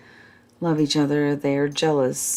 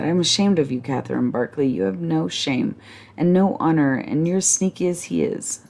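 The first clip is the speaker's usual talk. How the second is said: indignant scolding. Acted. Ferguson denouncing.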